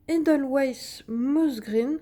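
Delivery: slow English words in a French accent; careful, drawn-out attempt at an English accent; self-mocked English accent. Real, not acted. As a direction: say the English name slowly, French accent showing. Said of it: "avec mon super accent anglais".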